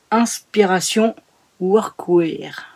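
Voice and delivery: "Inspiration Workwear" read in a playful mock English accent; lightly hammed-up English accent on "Workwear". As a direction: say the title like an English speaker, half-joking. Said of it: "avec mon super accent anglais".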